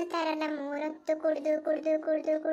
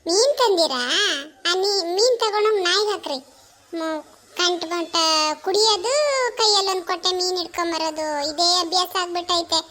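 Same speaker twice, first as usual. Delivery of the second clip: louder, exasperated nagging; scolding wife; 5 dB louder than usual. Acted. Wife scolding husband for bringing fish after drinking, loud and fed up. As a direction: tell off a drunk husband.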